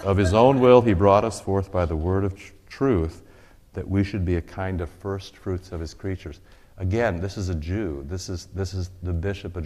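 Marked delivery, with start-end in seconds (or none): 0.0-6.4 proclaiming. Real, not acted. Reads scripture loudly.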